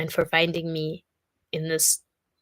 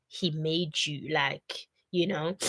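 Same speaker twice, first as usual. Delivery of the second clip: choked up crying; 2 semitones lower, 6 dB quieter, slower than usual. Real, not acted. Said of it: "I'm Viola Davis crying".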